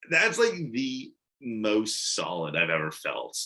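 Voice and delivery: ordinary delivery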